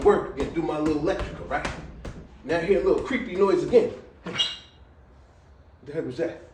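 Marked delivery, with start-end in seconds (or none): 4.2-6.4 hushed, slow, breathy "the heck was that"; spooked whisper. Retold or imitated. Alone at midnight in the empty house, a spooked whisper.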